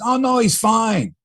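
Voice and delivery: light, slow Spanish accent imitation of the manager. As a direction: lightly mimic a Spanish lilt, drawn out. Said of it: "making fun of Charlie's Spanish accent".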